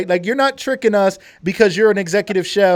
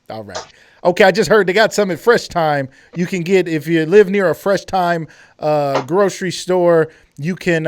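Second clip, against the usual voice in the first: usual speaking voice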